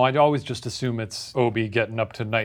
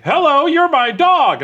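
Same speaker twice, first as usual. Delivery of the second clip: high, loud, slow creepy greeting; creepy stranger voice; 8 dB louder, slower than usual. Pretend. Burned-eyed man greeting the burglar, high and creepy. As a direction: drawl it out like a deranged man. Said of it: "he's like".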